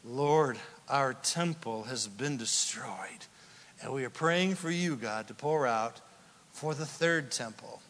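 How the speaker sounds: imitated wailing prayer. Preacher voicing mourners praying at the Wailing Wall, low understated lament. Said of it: "They're wailing because they're like".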